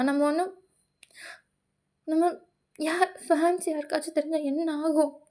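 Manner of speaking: mild, rising reproach; upset Tae remonstrating. Acted. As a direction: plead for understanding as pitch rises.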